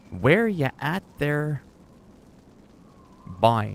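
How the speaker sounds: slow, drawn-out imitation Newfoundland accent; Newfie accent. Replaying the classmate's baffling greeting, slow Newfoundland accent. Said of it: "they got the accent".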